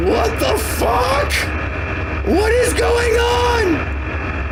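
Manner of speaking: very high, slow squeaky cat voice; squeaky baffled cat. Retold or imitated. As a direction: voice the startled kitty, high and drawn out. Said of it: "about to look over the edge like".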